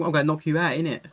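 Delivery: mock Northern English lad threat; a lightly done Northern English hard man; Northern accent. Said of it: "I don't know what that accent was".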